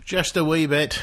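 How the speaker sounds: a hint of Scottish, echoing her words; light Scottish accent. A hint of a Scottish accent, echoing the cohost's line. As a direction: echo it back in a light Scottish lilt. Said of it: "Oh, I like your accent".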